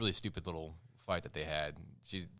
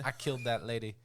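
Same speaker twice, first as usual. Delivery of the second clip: hammed-up anguish, pitch up; a mocking take on her line; mock anguished heroine; 4 semitones higher than usual. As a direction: overact the guilt-stricken heroine. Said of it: "then she's like".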